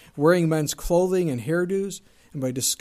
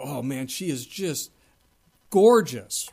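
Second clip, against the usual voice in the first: admiring gasp; 2 semitones lower, 4 dB louder, slower than usual. Retold or imitated. Admiring a beautiful woman.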